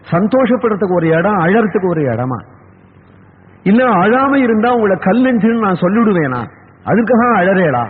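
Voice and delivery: mildly acted weary reproach, pitched a bit up; exasperated scolding. Queen tired of consoling her weeping husband, exasperated scolding. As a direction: scold as one fed up with consoling. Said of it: "சுட சுட வச்சனங்களை சொல்லிவிட்டார்".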